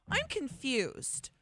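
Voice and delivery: high, drawn-out mock puzzlement; mock confused. Host quoting the phrase she hates, mock confused. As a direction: imitate a clueless emailer, slow and high. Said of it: "what phrase I just hate".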